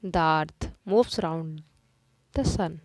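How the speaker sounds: very slow, deliberate reading; slow dictation. Shown as a demonstration. Teacher dictating a sentence slowly to the class. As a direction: read the sentence slowly for copying. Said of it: "teacher reads example sentence slowly".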